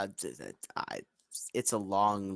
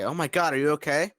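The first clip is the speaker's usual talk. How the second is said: alarmed concern; 7 semitones higher, 5 dB louder than usual. Acted. Rushes to burned Thri-kreen.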